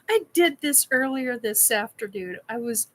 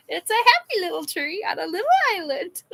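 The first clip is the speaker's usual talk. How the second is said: quick, lightly higher Bob Ross imitation; Bob Ross impression; 6 semitones higher, faster than usual. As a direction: playfully mimic the gentle TV painter. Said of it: "Bob Ross".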